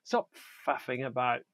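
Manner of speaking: half-laughing, exasperated; exasperated laugh at fussy diners; laughing exasperation. Retold or imitated. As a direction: tell them to shut up through a laugh. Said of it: "and I wanna go".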